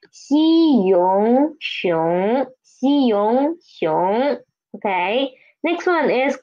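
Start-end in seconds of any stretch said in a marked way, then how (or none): 0.1-2.5 西洋熊 sounded out in parts, then joined with a rising tone; syllable blending. Shown as a demonstration. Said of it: "Put them together is". 2.6-4.4 西洋熊 drawn out slowly, parts first, then joined; syllable blending. Shown as a demonstration. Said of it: "Put them together is".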